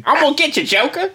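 mock Batman.

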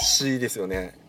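soft conspiratorial whisper. Pretend. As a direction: whisper it back, sharing the secret. Hushing about local talk.

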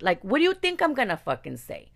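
fed-up angry question; indignant outburst. Real, not acted. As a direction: let the outrage spill over. Outraged rhetorical question.

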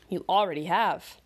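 dry, curt owl reply; a clipped retort from a wise owl; Cece owl voice. Acted. Cece's owl voice.

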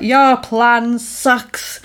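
slow, deliberate mock comeback; drawn-out retort. Woman waking up to taunt her attacker, slow drawn-out retort. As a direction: stretch each word out slowly.

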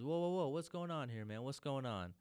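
a neighbor rushing out at a noise, yelping in surprise; high-pitched mock alarm; startled neighbor.

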